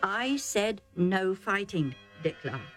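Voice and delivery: slow, calm, firm refusal; old chief calmly refusing his herdsman; calm but firm. Acted. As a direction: hold your ground calmly. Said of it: "Isaac said calmly but firmly".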